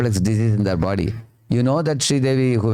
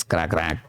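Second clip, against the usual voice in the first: softer, low mock cawing; crow caw imitation; 5 semitones lower, 4 dB quieter than usual. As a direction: imitate a crow's rough call. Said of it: "I make a sound like this".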